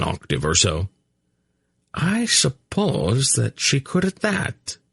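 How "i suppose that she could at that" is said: bland agreement. A narrator's reading. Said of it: "Varana agreed blandly".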